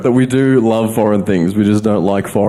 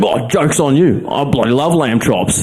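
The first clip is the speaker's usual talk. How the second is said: cocky tradie; 4 semitones higher than usual. Retold or imitated. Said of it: "he went".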